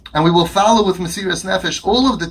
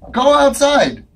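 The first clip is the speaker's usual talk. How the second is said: laughing; 7 semitones higher, 4 dB louder, much slower than usual. Real, not acted. Laughing dismissal.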